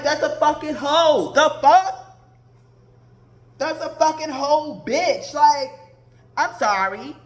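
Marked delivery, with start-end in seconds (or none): 0.0-2.2 louder indignant retort; loud mock outrage; retold outburst. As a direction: snap back in disbelief. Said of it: "I'm like".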